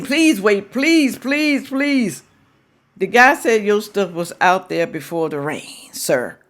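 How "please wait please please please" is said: a hammed-up plea from a grown man; mock begging. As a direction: plead like a man begging them to wait.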